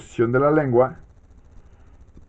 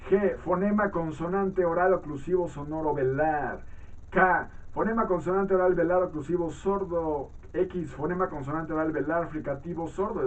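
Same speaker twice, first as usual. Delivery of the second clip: higher, measured reading voice; textbook read-aloud; 4 semitones higher than usual. Acted. Teacher reads phoneme definitions to students, measured read-aloud. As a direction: read out a phonetics text for a class.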